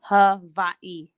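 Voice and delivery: Hawaii as "ha-VAI-ee", slow and careful; Hawaiian Hawaii. Shown as a demonstration. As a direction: Hawaii pronounced the local way, with a v sound. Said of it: "That's how you say it".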